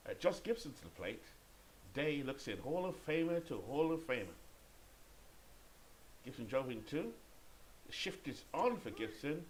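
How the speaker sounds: lively baseball announcer call; play-by-play. Pretend. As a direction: punch up the action, then settle into the score. Calls the game play-by-play.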